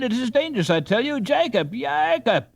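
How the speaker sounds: high, calling the sleeper's name; urgent cry. A narrator's reading. Ben urging the boys to wake Jacob, calling. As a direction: try to wake a sleeping friend. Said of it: "cried Ben".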